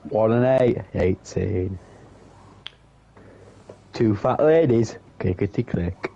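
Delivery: slow sing-song bingo calls; bingo caller. Pretend. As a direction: call it like the bingo hall.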